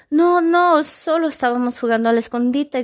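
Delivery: high, loud pleading shout. Acted. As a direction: shout it out in a panic. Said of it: "gritó Gabriela".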